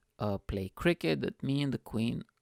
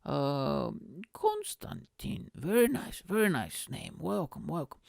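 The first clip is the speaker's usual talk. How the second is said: high, swooping voice of the Queen; mock-royal pleasantries in a high voice; Queen impression; 5 semitones higher than usual. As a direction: imitate the Queen meeting guests, pitch leaping high. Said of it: "I need to imitate the Queen now".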